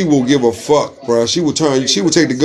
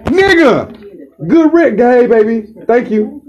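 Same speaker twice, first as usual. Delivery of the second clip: high sweet phone voice; 7 semitones higher, slower than usual. Retold or imitated. Acted phone call sweetness.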